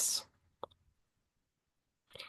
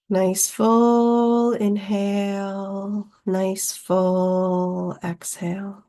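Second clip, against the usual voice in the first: guided meditation; 2 semitones higher than usual. Real, not acted. Teacher leading listeners through chronic pain meditation, unhurried guiding delivery. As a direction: lead them gently into breath, drawing out key words.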